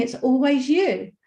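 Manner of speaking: light, mild shouted outburst. Retelling what a screaming woman yelled: imitating a woman yelling. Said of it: "she started yelling at me and saying".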